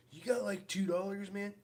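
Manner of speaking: panhandler voice. Retold or imitated. Retelling a panhandler's ask.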